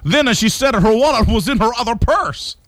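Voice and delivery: Giovanni Capelli. Acted. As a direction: gripe in exaggerated cartoon Italian. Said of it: "Griped Giovanni Capelli".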